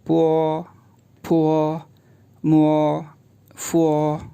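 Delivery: पो फो मो फो, each ending in a rounded o; पो फो मो फो read slowly as one row; pinyin row. Shown as a demonstration. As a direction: row of syllables sharing the o ending. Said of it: "कैसे?".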